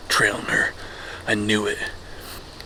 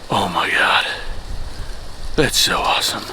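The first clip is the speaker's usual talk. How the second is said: excited. Real, not acted. Just shot a buck, elated.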